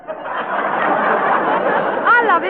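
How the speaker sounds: breathless laugh through the words. Acted. Sugarpuss laughing as she confesses her love. Laughing, swooning over the professor.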